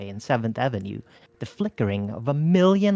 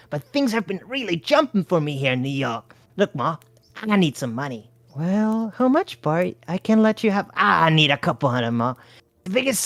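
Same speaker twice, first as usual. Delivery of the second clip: lightly voiced hustler; 6 semitones higher than usual. A narrator's reading. Bart hustling mother.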